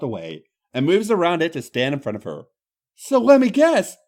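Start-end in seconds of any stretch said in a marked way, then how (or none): 2.9-4.0 Irish woman, indignant. Acted. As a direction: scoff in a broad Irish voice. Becky's voice continues.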